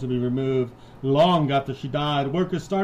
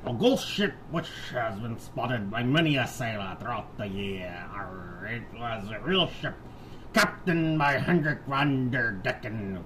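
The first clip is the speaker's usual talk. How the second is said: mock pirate. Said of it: "do a pirate voice".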